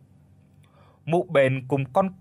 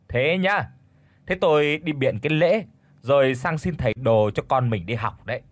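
sweet-sour tone. Acted. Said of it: "dở giọng ngọt nhạt".

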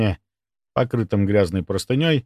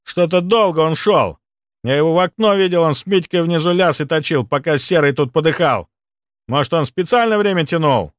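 spiteful accusation; 7 semitones higher, 3 dB louder than usual. Acted. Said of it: "злобно посмотрел".

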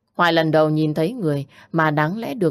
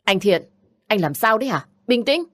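raised-pitch rebuke, moderately forceful; stern scolding; 5 semitones higher than usual. Acted. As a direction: tell him off sharply to calm down. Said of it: "Thu gằn giọng quát lớn". (gằn giọng quát, mức vừa phải)

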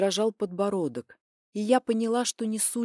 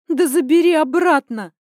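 high, loud outburst; shouted; 9 semitones higher, 11 dB louder than usual. A narrator's reading. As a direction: yell it back at him. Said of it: "выкрикнула я".

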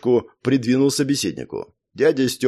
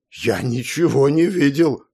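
slow, firm denial; 2 semitones higher than usual. A narrator's reading. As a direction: deny it flatly and slowly. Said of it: "твёрдо сказал дядя Стёпа".

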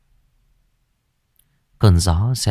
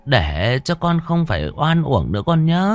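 sweet coaxing; 7 semitones higher than usual. Acted. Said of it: "Bà Bá Hùm ngọt nhạt".

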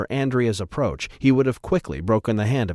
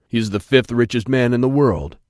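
proud; 4 dB louder than usual. A narrator's reading. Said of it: "Remus added proudly".

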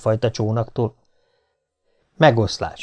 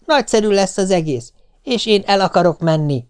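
eager wife; 7 semitones higher than usual. A narrator's reading. Wife insists.

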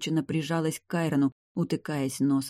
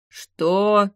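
high, loud shocked "что"; the grandfather yelps in disbelief; startled cry; 6 semitones higher, 7 dB louder than usual. A narrator's reading. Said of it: "вскрикнул его дед".

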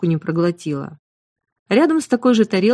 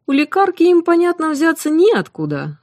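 copying the cook's southern sing-song speech, pitched high; a playful imitation of the cook's rustic southern lilt; mimicking the cook's dialect; 10 semitones higher, 4 dB louder than usual. A narrator's reading. The healer answers the cook by mimicking her southern dialect. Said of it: "подделалась я под её говор".

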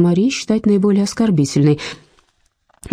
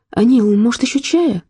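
hopeful; 7 semitones higher than usual. A narrator's reading. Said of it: "С надеждой в голосе".

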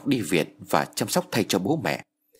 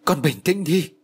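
sharp shout; 7 semitones higher, slower than usual. A narrator's reading. Uncle shouts at his panicking niece to calm down. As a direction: snap at her to get a grip. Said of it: "Bác liền quát".

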